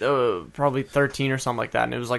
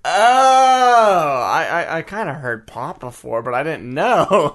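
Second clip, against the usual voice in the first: imitating the woman; 3 semitones higher, 4 dB louder, slower than usual. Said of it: "woman just looks at me and goes".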